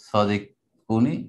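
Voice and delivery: সাদিকুনই stretched very slowly; slow drawn-out word. Shown as a demonstration. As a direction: draw the word out for the class. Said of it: "teacher drawing out the word". (ধীরে টেনে বলা)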